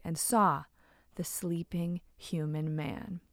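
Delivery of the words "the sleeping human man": slow hushed whisper. A narrator's reading. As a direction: breathe it out, slow and secret. Secret discovery at night.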